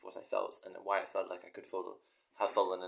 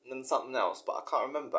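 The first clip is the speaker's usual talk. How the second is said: higher, louder put-on Cockney voice; Cockney take on a famous singer; 7 semitones higher, 6 dB louder than usual. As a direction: play a famous singer fumbling his lyrics in Cockney. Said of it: "like Bob Dylan".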